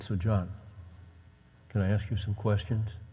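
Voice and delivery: soft, careful fatherly asking; tender. Retold or imitated. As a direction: gently ask permission of a son. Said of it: "It, it was tender".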